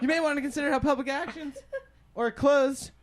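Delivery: reading while high; stoner. Real, not acted. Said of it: "I'm really high right now".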